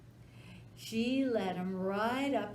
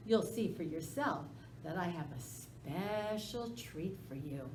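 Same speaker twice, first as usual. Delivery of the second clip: sly wheedling; 2 semitones higher than usual. Acted. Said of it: "that sly dog whined".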